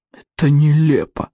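slow spat-out outrage; hissing and spitting. A narrator's reading. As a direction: spit the words out in fury. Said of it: "Проглот шипел и плевался". (шипя и плюясь)

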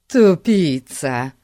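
slow, forceful hissed insult; angry hiss. A narrator's reading. Fati rebukes Larry for using his name, slow angry hiss. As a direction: draw the word out through the teeth, cross. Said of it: "прошипел Фати".

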